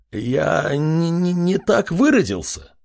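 high, flustered backpedal; frightened stammer. Acted. Sweating chief backs down before the king, stammering. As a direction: stumble over words in fear.

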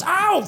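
high sharp ow; yelp of pain. Retold or imitated. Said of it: "he goes".

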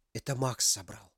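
soft low whisper. A narrator's reading. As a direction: breathe it into her ear. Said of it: "прошептал на ушко женщине".

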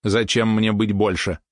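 slow, measured machine voice; robot spider. Acted. Mechanical spider questions being enlarged, slow robot voice. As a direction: space the words out like a robot.

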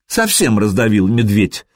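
breathless flirty complaint; gasping for air. Acted. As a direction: say it out of breath, teasing. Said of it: "задыхаясь, ... кокетливо".

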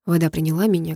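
ordinary delivery

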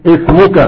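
"اسمك" starting on a clear i, ismuka; sounded initial hamza. Shown as a demonstration. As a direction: begin "اسمك" with the hamza pronounced. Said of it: "لما بدأت بها شوف". (نطق همزة "اسمك" مكسورة في البدء)

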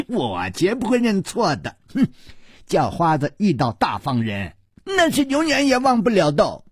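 put-on high child's voice after a snicker; snicker, then insist in a high kid's voice; cheeky little boy. A narrator's reading. Little baldy insisting he knows them, cheeky. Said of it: "小秃子眨着眼睛说".

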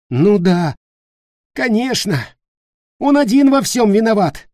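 high, loud mocking retort; sarcastic. Nick mocking Peter's excuse, loud sarcasm. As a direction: sneer it back. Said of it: "с сарказмом ответил Ник".

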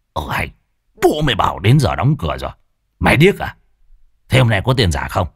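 gruff, rising to a shout; angry. Acted. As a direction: bark it at a deadbeat. Angry innkeeper grabs drunk debtor.

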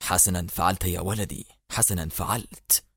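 low, soft, comforting approval; gentle, hushed fatherly praise; fatherly consolation. A narrator's reading. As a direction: console him quietly, slowing on the repeat. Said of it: "ربت المقدم على كتفه قائلا".

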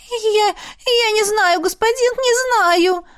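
high, slow, whimpering stammer. A narrator's reading. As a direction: whimper it out in fear. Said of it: "захныкала наложница".

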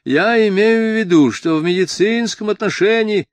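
high, loud bleating headmaster; timid official's high-pitched protest; bleating falsetto. A narrator's reading. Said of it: "проблеял фальцетом директор гимназии".

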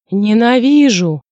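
Dronго shouting in hysteria. A narrator's reading. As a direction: hurl the word out. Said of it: "вдруг крикнул он".

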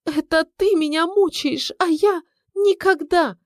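wounded wife. A narrator's reading. Wife crying out at her husband, high and wounded. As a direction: plead in hurt disbelief. Wife's high indignant cry.

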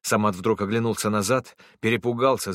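usual speaking voice

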